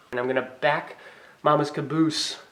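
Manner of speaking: stiff lips from the cold; mouth cold. Real, not acted. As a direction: talk through a numb cold mouth. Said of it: "I can't talk because my mouth is cold".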